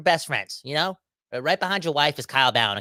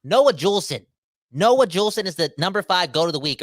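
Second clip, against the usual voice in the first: hyped; 3 semitones higher, 5 dB louder than usual. Real, not acted. Hyped announcement of pick.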